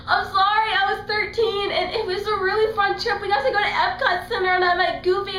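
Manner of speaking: high, loud, laughing apology; giggly Hazel excuse. Retold or imitated. Hazel excusing her Disney wish, high and giggling.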